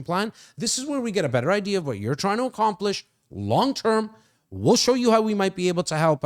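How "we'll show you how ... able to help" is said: "might" picked out with emphasis; stress on MIGHT. Shown as a demonstration. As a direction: lean on the word "might" to hedge the promise. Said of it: "I emphasize the word might".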